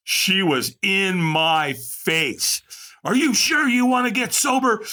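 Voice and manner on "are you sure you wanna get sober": raspy chain-smoker lady, pitched way up; Madge's smoker voice. Retold or imitated. AA phone volunteer grilling a caller, mock raspy smoker voice. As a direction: needle him like a vicious phone volunteer. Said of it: "she talked like this".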